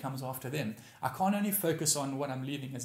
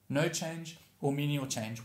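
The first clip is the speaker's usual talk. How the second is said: slow repeat; slower than usual. Shown as a demonstration. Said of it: "is no change or menial change".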